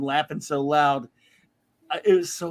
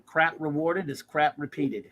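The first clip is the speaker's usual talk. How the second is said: slow saying; 3 semitones lower, 3 dB quieter, slower than usual. Shown as a demonstration. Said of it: "I have a saying".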